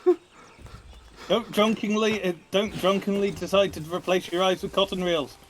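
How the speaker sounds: put-on Irish advice; Irish accent. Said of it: "this is an Irish accent".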